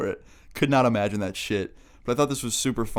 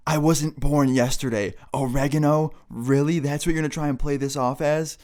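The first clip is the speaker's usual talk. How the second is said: higher-pitched, scornful mom voice; incredulous mom; 4 semitones higher, 3 dB louder than usual. Retold or imitated. Mom hearing the oregano excuse, incredulous mom. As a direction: imitate a mom not buying the excuse.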